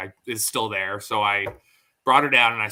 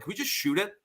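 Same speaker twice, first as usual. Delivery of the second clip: put-on much higher, small child's plea; imitating his daughter; 9 semitones higher, 5 dB quieter, faster than usual. Dad mimics daughter begging to shoot the animal, high childlike. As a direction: ask it like a fed-up little girl. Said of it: "that's her go-to all the time".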